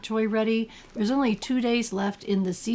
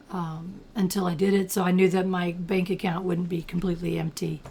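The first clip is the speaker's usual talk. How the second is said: slightly gravelly morning voice; a bit of gravel in the throat, like a cold. Real, not acted. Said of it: "Sorry if I sound a little gravelly this morning".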